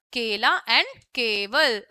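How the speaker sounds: केला and केवल said slowly, each syllable clear; slow example words. Shown as a demonstration. Teacher reading examples: केला and केवल slowly. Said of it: "के से शब्द बन जाएगा".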